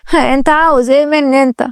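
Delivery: frightened plea. Acted. Girl locked in by the man, frightened plea. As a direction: pitch climbing into a mild panicked cry for help. Trapped girl pleads and cries help.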